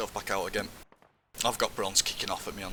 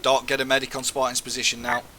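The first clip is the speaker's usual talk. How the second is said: man down shout; 4 semitones higher, 6 dB louder than usual. Real, not acted. Calling medic for wounded man.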